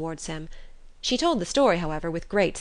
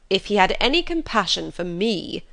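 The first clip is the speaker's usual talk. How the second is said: louder, exasperated husband; impatient outburst; 2 semitones higher, 4 dB louder than usual. Acted. Husband cutting off his chattering wife, impatient. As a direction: cut her off in irritation. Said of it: "cried her husband impatiently".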